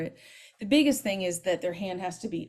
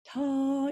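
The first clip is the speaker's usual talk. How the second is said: ideal trumpet note; 7 semitones higher than usual. Shown as a demonstration. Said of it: "ideally it's".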